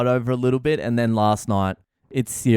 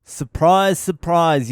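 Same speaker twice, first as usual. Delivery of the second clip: sarcastic surprise; 5 semitones higher, 4 dB louder, slower than usual. Acted. Mocking the caller.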